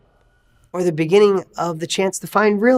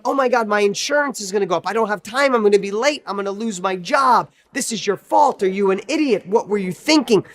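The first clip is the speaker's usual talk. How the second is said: fast, higher, frantic mock rant; panicked angry driver; 3 semitones higher than usual. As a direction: rattle off the worries like a stressed driver. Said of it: "And they're going".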